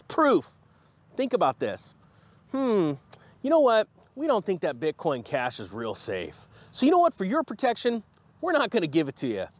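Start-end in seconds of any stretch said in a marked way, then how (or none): 2.5-9.5 mock Coinbase. Coinbase pretending to protect its customers, mock concern. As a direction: feign concern as a self-serving company. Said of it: "is that Coinbase decided".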